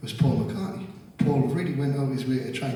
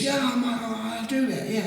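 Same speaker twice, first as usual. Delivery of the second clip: night watchman; 9 semitones higher, slower than usual. Retold or imitated. Watchman agreeing, voiced.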